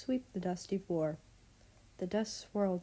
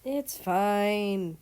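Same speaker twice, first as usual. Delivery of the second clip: bright, louder It's fine; bubbly louder girl voice; 6 dB louder than usual. Acted. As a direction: say it brightly, girl's voice. Bubbly Belarus answers.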